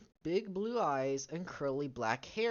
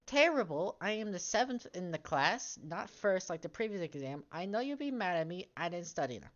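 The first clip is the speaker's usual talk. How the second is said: voicing Lisa; 2 semitones higher than usual. Redoing the daughter's line in a girlish voice. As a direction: give Lisa a put-on voice, strongest on the first word. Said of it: "Oh, no, no, no".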